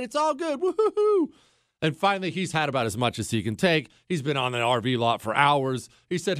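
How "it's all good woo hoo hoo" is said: gleeful cheer. Real, not acted. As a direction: celebrate like it's in the bag. Cheering that all is good.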